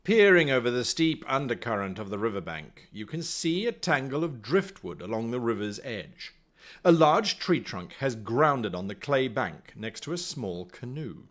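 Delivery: low-pitched, measured gamebook reading; storyteller setting the scene; story narration. A narrator's reading. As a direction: narrate it like an adventure tale. Reads gamebook aloud.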